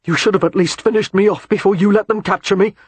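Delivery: muffled, face buried in fur. A narrator's reading. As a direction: speak into a dog's coat. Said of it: "His voice was muffled".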